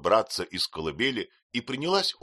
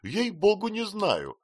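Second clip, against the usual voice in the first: high, louder flustered protest; flustered denial; 13 semitones higher, 5 dB louder, slower than usual. A narrator's reading. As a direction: fluster and wave it off. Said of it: "ответила Пиготи".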